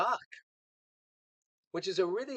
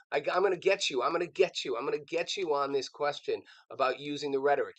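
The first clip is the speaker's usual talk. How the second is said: hostile, attacking; 3 dB louder than usual. Retold or imitated. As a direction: imitate an interviewer going after a guest. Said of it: "she's all hostile, like, all attacking".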